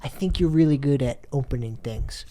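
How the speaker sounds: hushed, coaxing whisper; whispered encouragement. Acted. Player whispers to teammate urging him on, whispered. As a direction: whisper it close to his ear.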